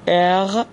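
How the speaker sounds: ار ending in a throaty غ sound; uvular German R. Shown as a demonstration. Teacher shows learners the two German R sounds, uvular R. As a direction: say ار with the R in the throat, slowly.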